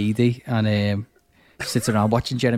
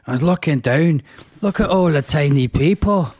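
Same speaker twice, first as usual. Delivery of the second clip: put-on light rough Scottish accent; a touch of thick Scottish brogue; 4 semitones higher than usual. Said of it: "with his dead thick, rough Scottish accent".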